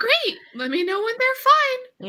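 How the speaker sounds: high puzzled voice.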